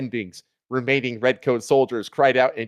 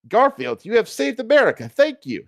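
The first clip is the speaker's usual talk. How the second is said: higher, lightly voiced grateful founder; John Adams voice; 9 semitones higher than usual. A narrator's reading. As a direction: thank him in a thin, high voice. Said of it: "said John Adams".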